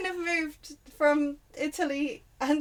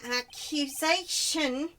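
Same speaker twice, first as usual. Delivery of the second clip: slow, loud mock French accent; 4 semitones higher, 5 dB louder, much slower than usual. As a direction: ham up a French judge. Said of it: "French accent".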